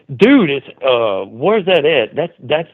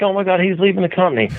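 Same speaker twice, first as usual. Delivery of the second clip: freaking out; 5 semitones higher, much faster than usual. Retold or imitated. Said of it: "everybody's freaking out like".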